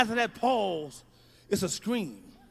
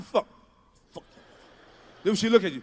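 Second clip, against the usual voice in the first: normal talking voice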